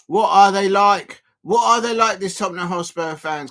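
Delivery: loud, exasperated rhetorical question. Real, not acted. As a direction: throw it out loudly in disbelief. Exasperated at Tottenham's own goal.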